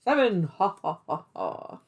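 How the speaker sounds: punchy number, then staccato ha-ha-ha; playful puppet-show counting with a chanted laugh; Sesame Street counting voice. Pretend. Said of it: "feel like I'm, like, on the Sesame Street".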